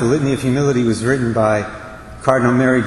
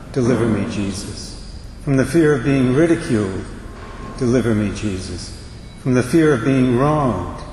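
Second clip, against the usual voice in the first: prayerful reading. Acted. Reads the Litany of Humility.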